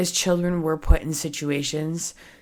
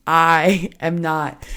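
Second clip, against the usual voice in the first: slow, louder I am not broken by a laugh; laughing insistence; 5 dB louder, much slower than usual. Real, not acted. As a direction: insist through a real laugh.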